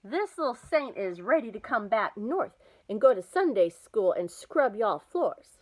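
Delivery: put-on loud, high old grandma shout; a loud grandma hollering down the phone line. A narrator's reading. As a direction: holler it so the phone has to be held away. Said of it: "while she shouted".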